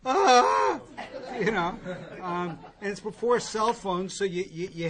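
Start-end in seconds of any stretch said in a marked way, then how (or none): 0.1-0.8 sudden loud yelp of panic, much higher and louder; a loud, high startled "Ah!"; startled yell. Retold or imitated. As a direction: jolt awake with a high, loud cry. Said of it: "and you go".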